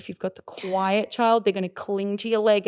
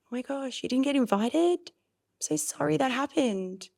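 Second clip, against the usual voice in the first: compassionate; 5 semitones higher than usual. Shown as a demonstration. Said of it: "So I will say".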